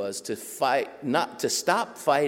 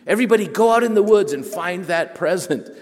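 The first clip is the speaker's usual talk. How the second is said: high, loud rallying command; enthusiastic orders; 8 semitones higher, 9 dB louder than usual. Retold or imitated. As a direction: send the students out with gusto. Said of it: "And he said".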